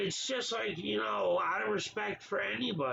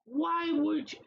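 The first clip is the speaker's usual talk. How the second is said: exasperated outburst; 8 semitones higher, 3 dB louder, slower than usual. Real, not acted. Ranting about the caught abuser.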